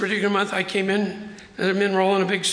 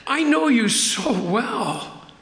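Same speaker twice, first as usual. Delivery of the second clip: voicing God to Joshua; 3 semitones higher than usual. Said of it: "he said".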